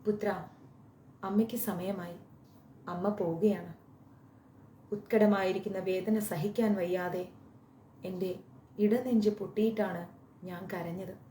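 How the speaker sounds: sobbing farewell. Acted. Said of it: "വിങ്ങി പൊട്ടിക്കരഞ്ഞുകൊണ്ട് പറഞ്ഞു".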